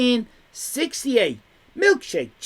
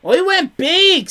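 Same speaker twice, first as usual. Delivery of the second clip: mock voiced boast; 10 semitones higher, 8 dB louder, slower than usual. Voicing a chat message.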